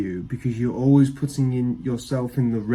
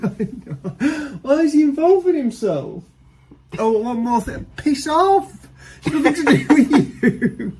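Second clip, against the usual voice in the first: mock annoyed cyclist; 10 semitones higher than usual. Mocking the cyclist's irritation.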